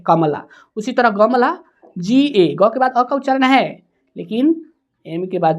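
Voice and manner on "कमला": कमला as कम-ला, with no "a" after म; कमला said as two beats, "kam-la"; no vowel after म. Shown as a demonstration. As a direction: close कम on the म, then say ला. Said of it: "M के बाद जो है अ का उच्चारण नहीं है".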